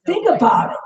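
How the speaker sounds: whispered aside; breathy whisper to the listener. Real, not acted. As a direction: hush it to a whisper. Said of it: "whispered aside".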